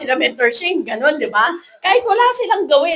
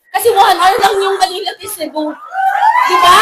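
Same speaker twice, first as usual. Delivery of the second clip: laughing; 2 semitones higher, 7 dB louder than usual. Real, not acted. Laughing exaggeration to crowd.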